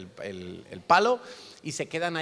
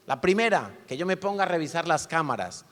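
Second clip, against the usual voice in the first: a touch of a stern drill sergeant, louder; a bit of a sergeant; 4 semitones higher, 3 dB louder than usual. Retold or imitated. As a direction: lightly play the strict sergeant. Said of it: "como un poquito sargento".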